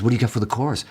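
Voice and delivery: lightly imitated Liverpudlian accent; impression of a singer. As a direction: quote him with a touch of bad Liverpudlian. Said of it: "I have to do the accent".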